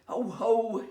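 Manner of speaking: hearty mock chortle; chortling. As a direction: chortle at her. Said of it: "he chortled".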